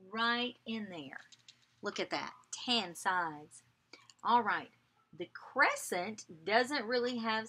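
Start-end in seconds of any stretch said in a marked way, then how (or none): 2.7-3.6 soft whispered aside. Shown as a demonstration. Teacher softly whispering the answer to kids. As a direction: hush it like a secret.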